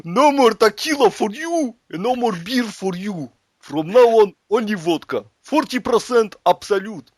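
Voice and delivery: hammed-up Russian decree; mock Russian commander. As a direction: lay down the law like an occupier. Russian occupier giving orders.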